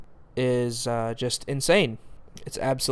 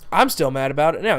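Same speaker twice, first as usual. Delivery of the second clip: still fuming; faster than usual. Real, not acted. Reviewer still riled up by the twist, heated. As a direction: let the leftover anger show as you rush it. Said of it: "You can hear it in my voice".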